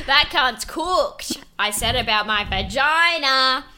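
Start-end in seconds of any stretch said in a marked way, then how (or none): 0.1-1.4 very slow, laughing drawl; slow words through laughter. Real, not acted. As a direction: stretch it out while laughing. Laughing at joke.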